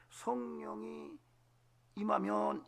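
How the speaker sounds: drawn-out hushed whisper, slow; hushed reverent whisper. Shown as a demonstration. Pastor to congregation, slow reverent whisper. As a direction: breathe it out slowly like a secret. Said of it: "이렇게 말하는 거예요".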